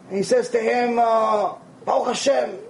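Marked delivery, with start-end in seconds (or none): 1.8-2.6 subdued, dutiful acted reply; downbeat Baruch Hashem. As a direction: answer like a weary complainer, understated. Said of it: "He's complaining nonstop".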